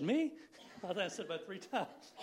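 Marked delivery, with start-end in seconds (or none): 0.0-0.3 high, loud, incredulous questioning; mock disbelief. Preacher retelling the call asking him to speak, incredulous. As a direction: replay your astonishment, pitch shooting up.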